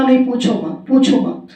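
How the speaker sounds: lightly voiced tearful queen; a hint of crying while refusing; mild weepy refusal. Queen refusing Akbar, a touch tearful. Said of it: "रोती जा रही".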